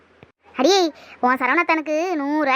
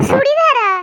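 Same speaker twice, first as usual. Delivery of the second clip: laughing in disbelief; 9 semitones higher, 5 dB louder, much slower than usual. Acted. Mocking the gift of a chudidhar.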